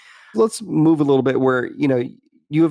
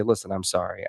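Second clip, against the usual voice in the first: soft apology; 3 semitones lower, 6 dB quieter than usual. Shown as a demonstration. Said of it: "be able to say".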